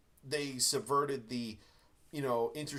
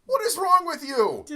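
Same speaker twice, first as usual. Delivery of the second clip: much higher, much louder incredulous shout; mock group outcry; 13 dB louder than usual. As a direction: yell it like a whole crowd appalled. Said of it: "Everyone turns to him and goes".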